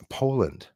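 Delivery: Poland said as "POH-land", firmly correcting Portland. Real, not acted. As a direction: lands on "Poland" with a falling, corrective tone. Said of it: "There's no fire in Portland".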